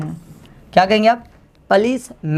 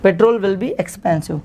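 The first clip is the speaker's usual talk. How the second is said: slow dictation; much slower than usual. Shown as a demonstration. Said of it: "petrol महंगा होगा".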